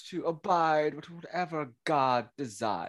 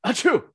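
sneezing; 4 semitones higher, 5 dB louder than usual. Acted. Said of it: "That boy will be sneezing right now".

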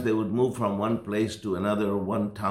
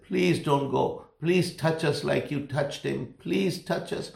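rising, pleading higher and higher; begging lepers; 5 semitones higher than usual. Retold or imitated. Lepers begging the pastor not to leave, pleading voice climbing higher. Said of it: "they were begging me".

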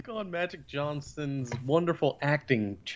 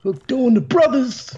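excited cheer; 9 semitones higher, 6 dB louder than usual. Real, not acted. Cheering the episode pick.

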